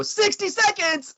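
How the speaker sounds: high, drawn-out crew shout; mock shouted cue. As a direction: imitate someone yelling a countdown far too high. Imitates crew member calling time cue.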